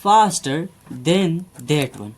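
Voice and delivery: very slow, word by word example sentence; slow dictation. Shown as a demonstration. Teacher dictating an example to students, very slow. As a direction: spell it out slowly for the class. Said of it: "तो इसका faster और fastest बन जाएगा।".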